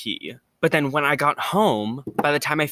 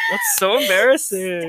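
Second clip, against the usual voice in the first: embarrassed shout; 7 semitones higher, 4 dB louder than usual. Real, not acted. Embarrassed outburst.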